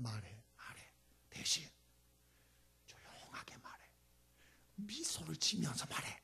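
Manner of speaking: soft, low whispering counsel; gentle voice of the Lord. Acted. The Lord advising a believer, soft whisper. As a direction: hush them gently, like a calm God. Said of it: "주님이 그렇게 말하세요".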